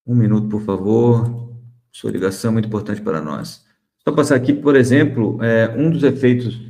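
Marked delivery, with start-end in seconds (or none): 0.0-3.6 chirpy call-center recording; customer service voice. Pretend. Mimics a phone hold message.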